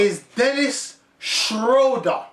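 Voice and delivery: "Schroeder" said SHROH-duh, with a long OH; correct pronunciation. Shown as a demonstration. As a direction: announce "Schroeder" deliberately with an OH vowel. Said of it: "just pronounce the man's name correctly".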